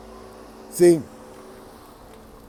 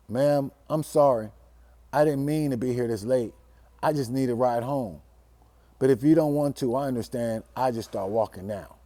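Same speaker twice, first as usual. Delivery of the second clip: sheepish apology; 5 semitones lower, 5 dB quieter than usual. Retold or imitated. Scared boy apologizing to his girlfriend's mom, meek and soft. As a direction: shrink and apologize politely.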